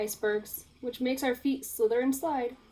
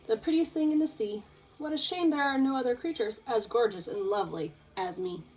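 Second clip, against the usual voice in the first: a hint of a preening diva; lightly voiced vain fish, darling; mildly haughty showing-off angelfish.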